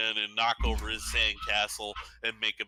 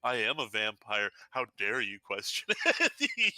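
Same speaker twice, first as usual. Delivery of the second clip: puffed-up boast. Retold or imitated. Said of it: "puff his chest out and be like".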